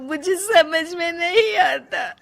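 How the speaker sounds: sobbing. Acted. Rajni confessing her anger to the family, sobbing. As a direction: give in to the tears. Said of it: "Rajni फूट फूट कर रोने लगती है".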